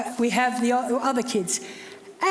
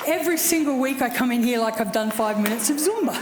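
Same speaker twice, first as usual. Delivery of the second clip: laughing; 4 semitones lower, faster than usual. Real, not acted. Laughing at own breathlessness.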